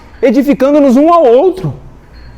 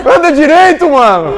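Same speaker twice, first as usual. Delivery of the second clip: higher, impatient telling-off; retold angry order; 5 semitones higher than usual. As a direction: act out snapping at the man behind. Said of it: "eu levantei já brabo". (mandando, brabo, encenado)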